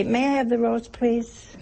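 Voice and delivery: mock-polite request, softening at the end; polite sister. Sister asking for the roast at dinner, imitated politeness. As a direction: imitate a well-mannered nun asking softly. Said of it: "sisters used to say".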